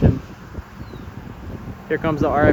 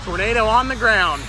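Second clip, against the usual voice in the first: high, breathless excited call; calling out the sighting; breathless shouting over wind; 8 semitones higher than usual. Real, not acted. Storm chaser spots tornado.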